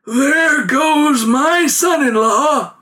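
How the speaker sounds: slow, high, loud call out; hailing call. A narrator's reading. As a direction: call out to him across the street. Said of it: "an old herbalist hailed him".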